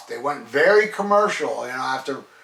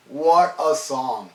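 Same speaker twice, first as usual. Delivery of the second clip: "What a song" drawn out word by word; savoured slowly; much slower than usual. Real, not acted. Fan praising a song, savouring "What a song" slowly.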